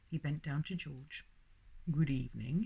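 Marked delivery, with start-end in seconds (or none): 1.9-2.6 a touch louder, clear and careful; doctor speaking up to a baby. A narrator's reading. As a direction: greet the baby loud and clear. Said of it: "he said loudly and clearly".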